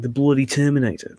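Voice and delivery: imitated British accent with a Scottish lean; a catchphrase in a borrowed Scottish-British accent; Ben Cardall's accent. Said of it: "Then I can get his accent pretty well".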